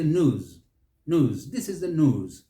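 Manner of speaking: "news" as NOOZ, no glide; American news. Shown as a demonstration. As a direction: drop the y sound from "news". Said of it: "The Americans simplify it".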